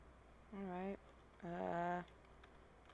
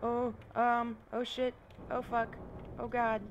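scared then relieved. Real, not acted. Still fleeing, then pleading.

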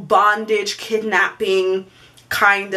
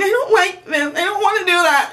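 nervous laughing; 8 semitones higher than usual. Retold or imitated. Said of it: "thinking, freaking out".

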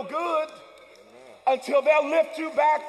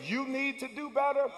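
softer conscience voice; inner voice; 6 dB quieter than usual. Retold or imitated. Preacher voicing the conscience softly to the church. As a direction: let it sound like a quiet inner nudge. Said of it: "hear the voice saying".

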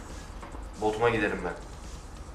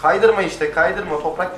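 drawn-out plea; 5 semitones higher, 8 dB louder, slower than usual. Real, not acted. Pleading with skidding vehicle.

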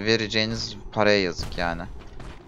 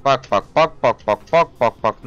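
louder rapid look look look; loud exasperated pointing; loud urgent look; 8 dB louder than usual. Real, not acted. Showing viewers the enemies.

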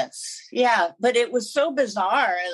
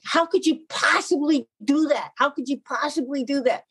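mild mock scolding, pitched up; retold yelling; 3 semitones higher than usual. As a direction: scold the pet in exasperation without really shouting. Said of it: "I'm just yelling at him".

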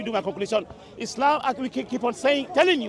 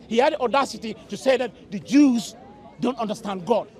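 raised voice. Real, not acted. Heated debate, raising voice.

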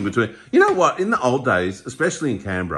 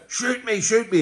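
playful bloke; 11 semitones higher, slower than usual. Retold or imitated. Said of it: "they go".

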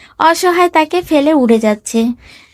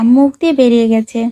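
mild, lower-toned excuse with a falling end; apologetic excuse; 3 semitones lower, faster than usual. Acted. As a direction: let it out as a sheepish excuse. Husband excuses a slip to wife. (হালকা কৈফিয়তের সুর)

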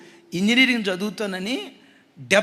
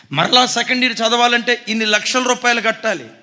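ordinary talk

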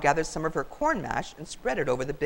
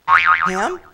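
shocked; 12 dB louder than usual. Acted. Pig hears dreaded word.

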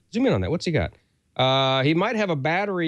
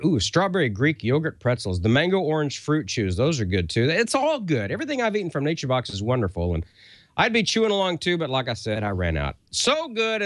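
ad read; 3 semitones higher than usual. Acted.

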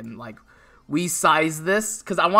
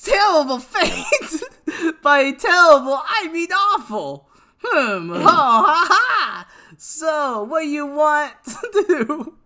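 high cartoon hero, hammed-up; Naruto; 7 semitones higher, 4 dB louder, slower than usual. Streamer resuming the game dialogue, high Naruto impression breaking into laughs. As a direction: put on a high anime voice, with a big villainous laugh.

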